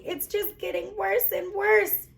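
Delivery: a mother about to break down; worried mother on the verge of sobbing; near tears. A narrator's reading. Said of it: "She began to sob".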